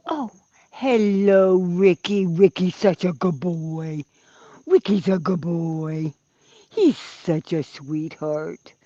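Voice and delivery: tender pet talk. Real, not acted. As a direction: coo affectionately to the dog. Talking to dog Ricky.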